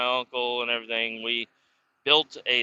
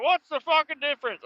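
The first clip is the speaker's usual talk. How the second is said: mocking the great uncle. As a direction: ham up the proud family asshole. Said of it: "He's like".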